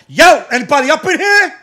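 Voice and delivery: loud, high calling out; imitating a rude customer. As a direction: holler for service across the store. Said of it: "starts slamming on the tab".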